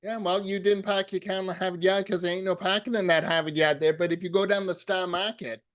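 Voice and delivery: put-on light joking Boston accent, dropped r's. Host riffing on Boston with the guest, light Boston accent. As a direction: riffs like a Boston local, lightly.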